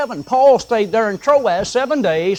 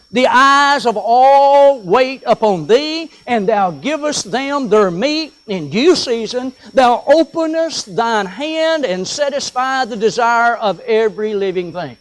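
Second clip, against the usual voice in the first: slow, weighty reading of the psalm; reading scripture from the pulpit, slow and solemn; 3 dB louder than usual. Acted. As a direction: lay out each phrase slowly like holy writ. Reads scripture aloud.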